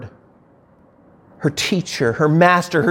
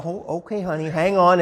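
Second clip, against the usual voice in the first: much softer, soothing tone; calm husband; 5 dB quieter than usual. Retold or imitated. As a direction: try to settle a panicking wife. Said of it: "the husband's there's going".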